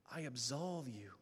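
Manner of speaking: sweet voice of Jesus. Acted. Jesus forgiving the penitent in confession, low and tender. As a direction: murmur it gently like Christ forgiving. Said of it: "I heard the sweet voice of Jesus".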